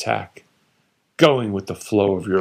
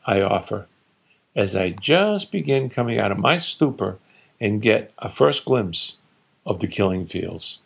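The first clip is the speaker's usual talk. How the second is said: ordinary delivery, nothing marked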